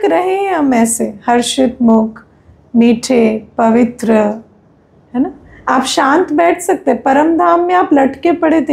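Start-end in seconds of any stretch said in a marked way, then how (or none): none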